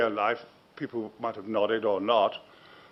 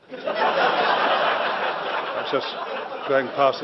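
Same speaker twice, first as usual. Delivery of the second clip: laughing; much slower than usual. Real, not acted. Laughs at his own joke.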